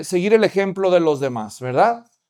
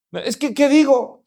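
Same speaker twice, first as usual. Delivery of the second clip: put-on much higher child voice protesting; little girl; 6 semitones higher than usual. Little girl tells the pastor she can't pray, high child voice. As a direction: squeak out a scared refusal.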